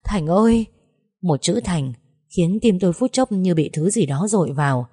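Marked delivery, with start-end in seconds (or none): 0.1-0.7 a higher, louder tearful cry; bursting into tears. Acted. Old woman seeing Thành arrive, a touch of tearful crying. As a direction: call his name as you break down crying. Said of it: "òa lên khóc".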